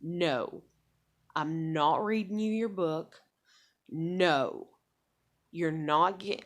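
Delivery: laying down the law. Retold or imitated. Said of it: "lay down the law".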